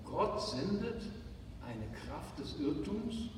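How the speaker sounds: quiet, doubting, as if the words can't be right; a hushed "did I read that right?"; incredulous reread. Shown as a demonstration. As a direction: softly question the verse in disbelief. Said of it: "Wie bitte?".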